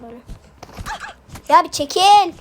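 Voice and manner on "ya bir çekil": annoyed. Real, not acted. Annoyed at teammate blocking him.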